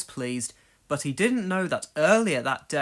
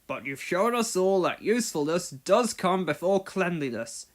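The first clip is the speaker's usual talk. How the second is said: kindly boss. Acted. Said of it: "continued Sir Topham Hatt".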